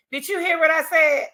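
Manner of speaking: high, loud teacher scolding a class; a touch of stern teacher checking the kids are listening. Retold or imitated. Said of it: "You have to say".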